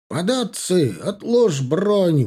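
a full-throated, slow battle cry at the enemy; shout with all his might. A narrator's reading. A hunter shouting a surrender demand at the Poles, full-voiced. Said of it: "выкрикнул он, что было сил".

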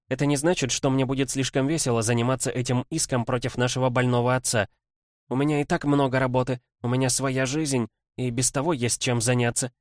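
brisk lawyerly princess voice, lightly voiced; quick, eager legal rattle; young woman voice. Kimbodzha on the lawsuit.

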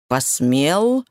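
sinister low echo of the word; dark lord. Acted. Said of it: "зловещим голосом переспросил Дрейк". (зловещий голос тёмного властелина)

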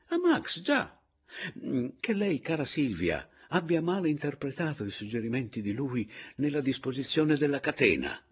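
high, loud character voice; excitable old theorist. A narrator's reading. Paleari explains the spirit's act to Silvia, excitable. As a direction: start very high, then explain insistently.

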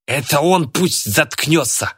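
high, drawn-out acted yell; angry cry. A narrator's reading. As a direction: pitch it up like a yell, without full volume. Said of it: "крикнул Тимур".

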